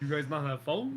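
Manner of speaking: P=A; New York accent. Retold or imitated. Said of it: "old-timey New York accent".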